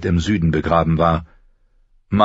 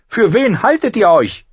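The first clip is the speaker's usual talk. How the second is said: high, loud outraged queen; raised, imperious outrage; indignant demand; 5 dB louder than usual. A narrator's reading. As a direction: throw the challenge at him. Outraged queen challenges Ned.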